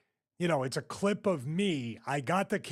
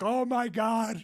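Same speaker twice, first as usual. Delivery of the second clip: retold disbelief; 8 semitones higher, 3 dB louder, slower than usual. Acting out friend helpless with laughter.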